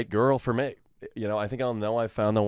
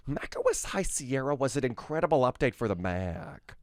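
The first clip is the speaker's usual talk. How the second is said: Tim Cook; 3 semitones higher than usual. Retold or imitated. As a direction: sell the product like a stage announcement. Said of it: "Tim, as in Tim Cook".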